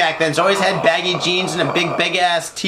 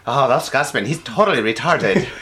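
lower, lightly attempted Scottish accent; 5 semitones lower than usual. Shown as a demonstration. Joker showing his poor Scottish accent. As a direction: have a go at Scottish, pitched low. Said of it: "when I do a Scottish, like, accent".

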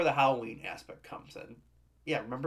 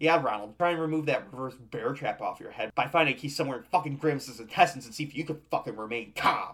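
louder, escalating rant; worked-up rant; 4 dB louder than usual. Real, not acted. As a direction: rage at the screen. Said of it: "Wes, calm down".

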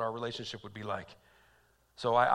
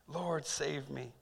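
slow, softer murmured plea; hushed prayer; 6 dB quieter, much slower than usual. Acted. Peter praying quietly in the storm, hushed plea. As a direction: let the plea fall away softly.

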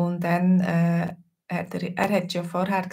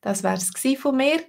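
higher, more distinct delivery; clearer repeat; 6 semitones higher than usual. Real, not acted. Teacher repeats the sign-off after apologising for being unclear, distinctly. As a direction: say it plainly articulated, lifted in pitch. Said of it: "ich bin grad nicht so deutlich gsi".

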